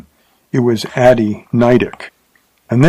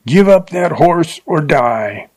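slow, higher-pitched narrated shout; shouted threat; 6 semitones higher than usual. A narrator's reading. Wild Bill, pistol in hand, threatens the rider, shouting. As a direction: call out the threat, drawn out and raised.

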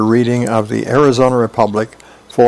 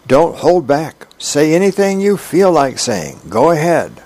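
higher-pitched egging-on; urging; 5 semitones higher than usual. Acted. Lucy urging Charlie Brown to get mad, insistent. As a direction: coax them to let it out.

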